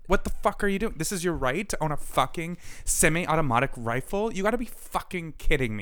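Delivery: high, incredulous anger; angry. Real, not acted. Host ranting at gun owners, incredulous anger. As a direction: rail at them in disbelief. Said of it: "I'm so angry about it".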